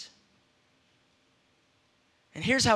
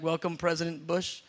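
awkward welcome; 5 semitones lower, 6 dB quieter than usual. Retold or imitated. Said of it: "We'd be like".

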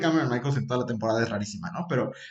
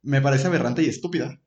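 ordinary delivery

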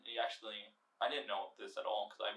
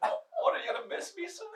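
laughing; 10 dB louder than usual. Real, not acted. Laughing fit.

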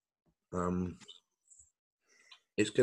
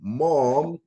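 calling out; 6 semitones higher, 7 dB louder than usual. Pretend. Calling out for mom.

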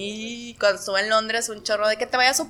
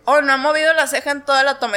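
high, quick mock dismay; mock surprise; 5 semitones higher, 4 dB louder, faster than usual. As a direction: gasp over it playfully. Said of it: "yo así de que".

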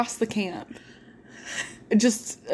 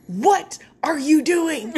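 slow, loud, higher-pitched exasperation; mock outraged demand; 6 semitones higher, 5 dB louder, slower than usual. Tired camper answering boys with a flashlight on her, mock outrage. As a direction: punch each word, half laughing. Acted angry reply to whisper-yelling boys.

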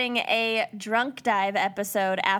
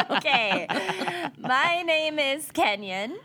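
laughing into the intro; 4 semitones higher than usual. Real, not acted. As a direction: giggle through the name.

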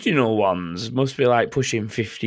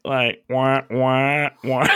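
duck noises; much slower than usual. Retold or imitated. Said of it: "the weird duck noises".

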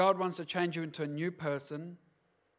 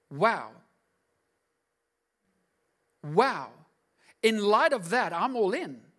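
awed realisation; 3 semitones higher, 4 dB louder, slower than usual. Retold or imitated. Voicing believer's awe.

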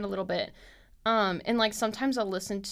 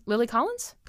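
rising, doubtful check of "Lily Collins"; unsure question; 3 semitones higher than usual. Real, not acted. Checking an actress's name for listeners, questioning. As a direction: ask "Lily Collins?" like you are not sure. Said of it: "Hold on".

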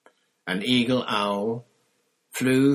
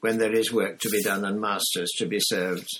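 dutiful elf. Acted. House elf explaining.

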